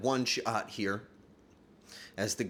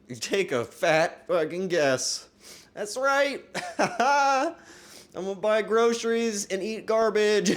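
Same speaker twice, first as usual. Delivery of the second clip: higher and louder, cackling through it; manic joke rant; 9 semitones higher, 6 dB louder than usual. Pretend. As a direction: play up a wild, laughing joke rant to viewers.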